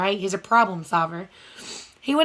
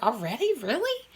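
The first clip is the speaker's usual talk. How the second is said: surprised Toad; 2 semitones higher, 5 dB quieter than usual. Acted. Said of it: "he was like".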